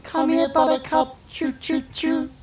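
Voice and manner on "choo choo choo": whistling for a dog. Pretend. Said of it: "I'm gonna whistle for my dog now".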